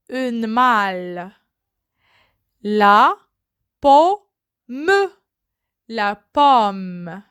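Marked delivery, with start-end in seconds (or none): 2.6-5.1 syllabified. Shown as a demonstration. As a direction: break "La pomme" apart. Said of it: "word split into syllables". ("La pomme" détaché, montée sur "pomme")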